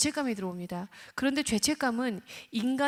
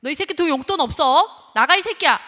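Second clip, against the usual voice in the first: very loud, higher threatening shout; threatening yell; 6 semitones higher, 13 dB louder than usual. Retold or imitated. Parent threatening the child, furious shout. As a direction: throw the kid out with a yell. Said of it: "사실 협박도 해요".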